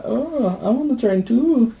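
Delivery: squeaky, silly high voice; high mock voice. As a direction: squeak it out teasing him. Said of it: "he was like".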